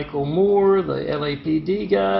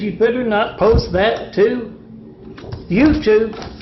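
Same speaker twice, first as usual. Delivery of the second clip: louder, higher retold warning; mild mock anger; 4 semitones higher, 3 dB louder than usual. Tommy warns those filming him, mildly angry. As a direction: give a touch of indignant anger. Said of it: "angry as anything".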